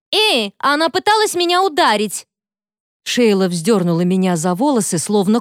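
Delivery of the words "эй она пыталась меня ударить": high, outraged cry; hurt and indignant; high indignant shout at the friend; indignant protest. A narrator's reading. Heroine protests mid-fight.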